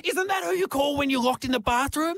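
high, earnest puzzled question; naive question. Retold or imitated. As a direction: ask it with innocent confusion. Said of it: "She's like".

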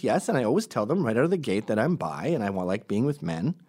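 lightly put-on gay man's voice; imitated friend, mildly affected. Friend defending himself, in a mock gay voice. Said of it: "I'm making him, uh, a gay voice".

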